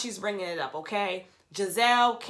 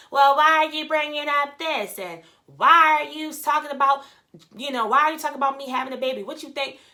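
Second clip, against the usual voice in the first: mock indignant questioning, higher and louder; Ashley; 5 semitones higher, 7 dB louder than usual. Imitating a castmate confronting someone at dinner, indignant. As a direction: imitate a put-out woman demanding answers. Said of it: "Ashley's like".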